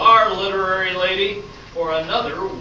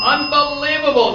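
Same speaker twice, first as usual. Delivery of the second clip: much higher and louder, mock astonishment; can't believe she got one right; stunned host; 9 semitones higher, 8 dB louder than usual.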